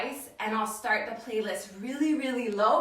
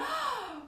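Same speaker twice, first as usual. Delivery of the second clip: excited gasp; 3 dB quieter than usual. Real, not acted. Reacting to a viewer's comment.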